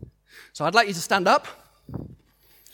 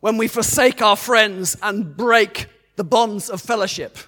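loud, slow battle cry speech; rally the troops before battle; roaring rallying speech; 3 semitones higher, 7 dB louder than usual. Retold or imitated. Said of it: "he says this".

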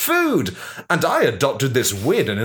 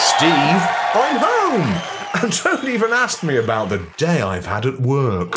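grumpy; 3 semitones lower than usual. Acted. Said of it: "from the tone of your voice".

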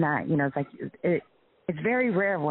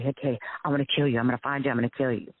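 quick, understated mock threat; retold anger, mildly voiced; imitated angry threat; 3 semitones lower, faster than usual. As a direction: rattle off his threats, lightly imitated.

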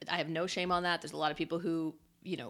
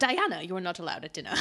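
posh Queen voice. Retold or imitated. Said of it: "She's like".

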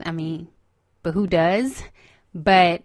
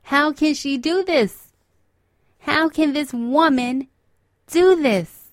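overwhelmed disbelief; 5 semitones higher, 4 dB louder than usual. Retold or imitated. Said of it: "I'm like".

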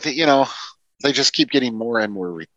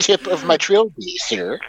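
higher, hammed-up gallant acknowledgement; mock courtesy; 6 semitones higher, slower than usual. Co-host tipping his trilby to the other, mock gallantry. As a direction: concede with exaggerated politeness.

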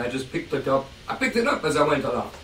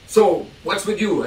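slow, higher mock Oscar asking; Oscar questioning; 5 semitones higher, 4 dB louder than usual. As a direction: play the great man sizing up the kid, slowly. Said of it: "he said".

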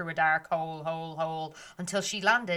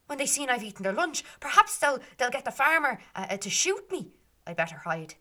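worried thought; 6 semitones higher than usual. Acted. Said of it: "and she thought".

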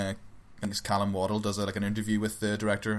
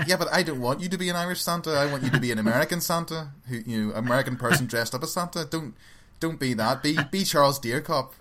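higher-pitched mock pleading with an actor; lightly acted director correcting his star; retold exasperated director; 5 semitones higher than usual. Director telling the actor to drop the Irish Santa, mildly exasperated. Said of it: "And he's like".

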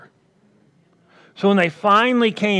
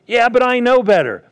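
high, louder whiny excuse voice; mock excuse; 7 semitones higher, 4 dB louder than usual. Preacher mimicking a believer's excuse, high and whiny. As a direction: play the self-justifying believer. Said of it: "voicing a believer's excuse".

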